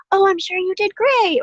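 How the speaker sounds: a hammed-up sugary reassurance; mock platitude. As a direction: parrot a syrupy comment. Mimicking commenters' platitudes.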